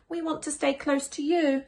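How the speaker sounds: a hint of a small child pleading; lightly voiced child. Child character voice.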